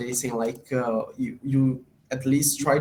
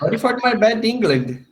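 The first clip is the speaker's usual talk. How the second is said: put-on high, loud Indian English accent; mock Indian English accent, apologizing; 9 semitones higher, 7 dB louder than usual. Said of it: "they talk like this".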